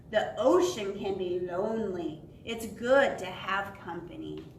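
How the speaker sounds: lightly voiced slow whale; deep, slow whale voice. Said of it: "in a deep, slow whale voice".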